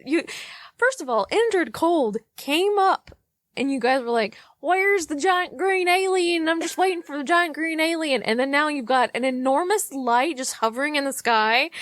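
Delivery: worked-up ranting at people; mock furious. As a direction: rant like you're fed up with everyone. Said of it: "got so viscerally angry right now".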